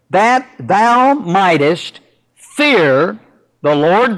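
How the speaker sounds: unhurried pulpit scripture reading. Acted. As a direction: read the verses with solemn weight. Reads scripture aloud.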